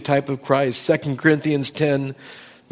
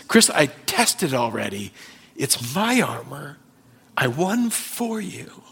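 gentle reassurance. Retold or imitated. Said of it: "the Lord answers".

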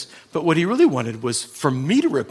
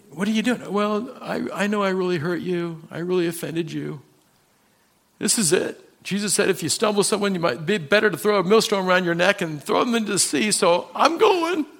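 voiced remorseful sinner; 5 semitones higher than usual. Pastor voices the remorseful man.

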